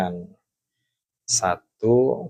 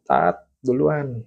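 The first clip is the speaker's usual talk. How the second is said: calling from afar; 4 semitones higher, 3 dB louder, slower than usual. Retold or imitated. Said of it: "dari jauh".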